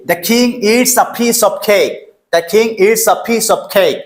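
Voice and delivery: "king" and "cake" with puffed k, slow and measured; sentence pronunciation drill. Shown as a demonstration. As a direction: model "the king eats a piece of cake" word by word, falling on cake. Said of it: "এখন বাক্যতে আমরা এটা use করব".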